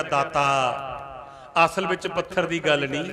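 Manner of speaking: subdued, with a touch of sorrow; retold tearful reply. Nand Lal answering his Guru, understated tearfulness. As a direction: lightly voice a disciple's grief, kept low. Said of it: "ਰੋ ਕੇ ਕਹਿਣ ਲੱਗਿਆ".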